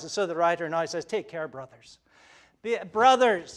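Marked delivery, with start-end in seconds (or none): 1.1-2.0 a tender pastoral appeal; pleading. Shown as a demonstration. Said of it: "do you sense the tone of pleading". 2.6-3.6 louder, higher urgent appeal; pleading with the congregation; earnest plea. Shown as a demonstration. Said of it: "sense the tone of pleading".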